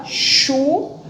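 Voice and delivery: chuva said as chu-va, ending on a rise; syllables split. Shown as a demonstration. Teacher shows pupils how chuva splits into syllables. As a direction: break chuva into its two syllables. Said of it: "Separação de sílaba".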